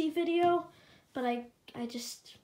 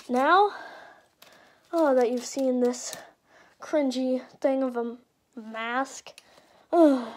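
muffled through mask; 7 dB louder than usual. Real, not acted. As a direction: voice muffled inside a full-head mask. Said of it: "this mask actually makes me sound kinda like an animatronic".

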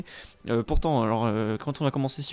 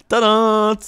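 tadam; 6 semitones higher, 8 dB louder than usual. Real, not acted. Revealing the camera view.

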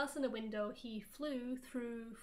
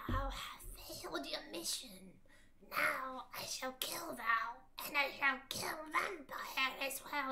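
lightly voiced villain, slow and breathy; a hint of a menacing dark lord; evil raspy voice; slower than usual. Voldemort threatens Ebony, a mild raspy whisper. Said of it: "he said evilly in his raspy voice".

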